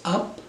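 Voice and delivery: "up" lifted high in pitch; rising tune. Shown as a demonstration. Teacher showing learners a rising voice, "up" pitched high. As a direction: let the voice climb on "up". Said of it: "whether the voice goes".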